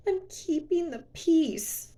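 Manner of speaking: a light high, slow mock of his line; mocking his words. Vlogger quoting her ex's favorite excuse, lightly mocking. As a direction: parrot his excuse with sarcasm. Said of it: "oh, his favorite words".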